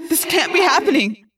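loud, high, distressed disbelief; anguished cry. A narrator's reading. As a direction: cry out in desperate denial. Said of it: "I cried".

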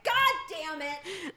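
slow, drawn-out frustrated curse; exasperated curse. Retold or imitated. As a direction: swear at the sky, fed up. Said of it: "you're like".

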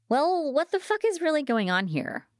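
high, heated demand; exasperated angry outburst; sudden anger. A narrator's reading. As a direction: flare up and demand an answer. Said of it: "I turned angry".

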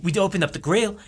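put-on Aussie tall-tale voice; Australian accent. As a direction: spin a yarn in an Aussie accent. Australian character tells tall tale.

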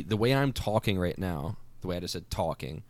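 natural, mild Philly accent. Shown as a demonstration. Guest showing his own way of talking, mild Philly accent. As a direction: talk in an everyday Philly accent. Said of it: "is more the Philly accent".

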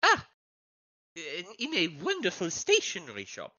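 affected, formal foreign character voice; visiting foreign journalist. Acted. Foreign journalist asking staff for the key, affected and polite. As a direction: put on courtly foreign politeness.

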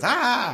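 high-pitched "ah" of pain; mock pained scream. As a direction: yelp as if touching something hot. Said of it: "And she goes".

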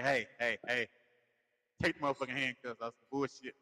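dropped, mock-serious voice; suddenly stern after the giggles; voice getting deep. Tickled captive demanding release, voice getting deep. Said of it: "now your voice getting deep".

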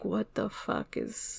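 slow, hushed whisper of disbelief; shocked whisper. Retold or imitated. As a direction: breathe it out, stunned. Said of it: "but I was like".

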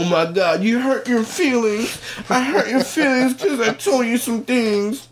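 high, cutesy self-mocking voice. Comic taunting a heckler in a mock adorable voice. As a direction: play the harmless little guy, way up high.

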